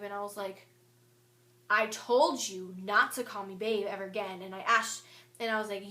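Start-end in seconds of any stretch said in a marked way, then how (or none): 1.7-4.4 mad. Retold or imitated. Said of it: "I was so mad".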